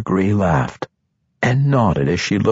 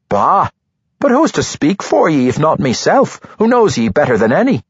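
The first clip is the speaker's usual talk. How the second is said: higher, fast, booming dwarf voice; jolly booming dwarf; 7 semitones higher, 3 dB louder than usual. A narrator's reading. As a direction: scoff then insist, fast and bright. Dwarf insists playfully.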